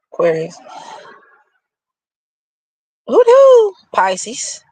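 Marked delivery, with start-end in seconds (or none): 3.1-3.7 loud, high excited whoop. Real, not acted. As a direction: whoop it out like a hype call. Hype call before next sign.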